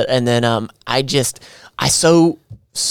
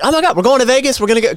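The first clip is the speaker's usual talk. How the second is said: mock excitement; 10 semitones higher, much faster than usual.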